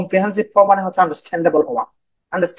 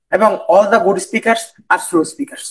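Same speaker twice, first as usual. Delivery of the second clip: very slow, each English word laid out; slow speaking; much slower than usual. Shown as a demonstration. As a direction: model slow, unhurried delivery. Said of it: "slowly বলবো". (খুব ধীরে, থেমে থেমে বলা)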